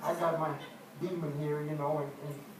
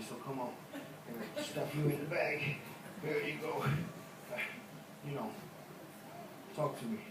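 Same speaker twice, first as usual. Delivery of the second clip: coaxing the demon; 3 semitones lower than usual. Acted. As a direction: sweet-talk it into the bag. Coaxing his demon into bag.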